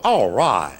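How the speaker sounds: low, cocky self-admiring "all right"; smug mirror pose. Retold or imitated. Man admiring himself in mirror, low cocky purr. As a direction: purr it at your own reflection.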